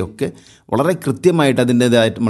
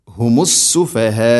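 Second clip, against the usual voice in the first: "ഹുമുസ് സുഫഹാ" slow, with the last vowel held long; elongated recitation; 3 dB louder, much slower than usual. Shown as a demonstration. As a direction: stretch out the end of "ഹുമുസ് സുഫഹാ" in a chant. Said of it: "നിർബന്ധമായിട്ടും നീട്ടേണ്ട മദ്ദാണ്". ("ഹുമുസ് സുഫഹാ" അവസാനം നീട്ടി ഓതുക)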